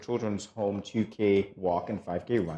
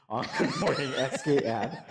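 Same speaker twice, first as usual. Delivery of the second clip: laughing; 5 semitones higher than usual. Real, not acted. Laughs mid-handle.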